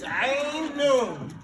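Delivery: "Ain nun" as two drawn-out Arabic letter names; name the letters "Ain nun" distinctly; Arabic letters named. Shown as a demonstration. Teacher shows students the Arabic spelling, letter names "Ain nun" sounded out. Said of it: "it's like this".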